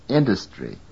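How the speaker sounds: INDUSTRY with weak dus after stressed IN; reduced vowel. Shown as a demonstration. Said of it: "is weakly stressed".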